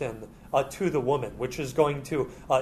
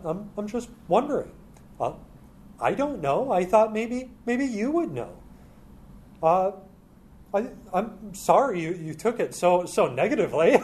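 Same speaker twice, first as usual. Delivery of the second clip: sly serpent playing innocent, higher; feigned innocence; 5 semitones higher than usual. Preacher voicing the serpent's innocent wounded excuse. Serpent voiced in sermon retelling.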